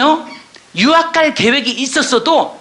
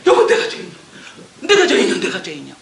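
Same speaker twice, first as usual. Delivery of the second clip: weeping confession; 4 semitones lower, faster than usual. Retold or imitated. Wife weeping before her husband, breaking tearful confession. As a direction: sob out the confession, breaking and fading. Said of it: "철철 우는 거야".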